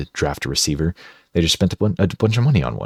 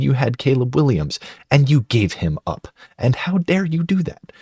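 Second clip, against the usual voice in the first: demanding GM. Acted. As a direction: lay down terms, then blow up at the end. Falcons GM demands picks back.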